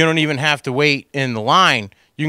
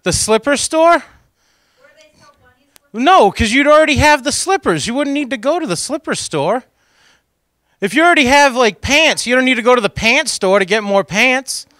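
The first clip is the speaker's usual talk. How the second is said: riffing; 10 semitones higher, 4 dB louder than usual. Acted. Riffing on shopping absurdly.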